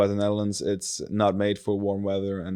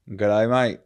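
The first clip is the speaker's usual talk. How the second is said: put-on a light Australian accent, a touch louder; hammed-up Aussie greeting in a mild Australian accent; 4 dB louder than usual. Podcast host greeting listeners in a light Australian accent. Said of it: "it's only right if I do an Australian accent right now".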